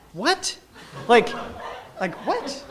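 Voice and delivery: can't believe who's at the door; shocked at meeting a schoolmate abroad; stunned disbelief. Retold or imitated.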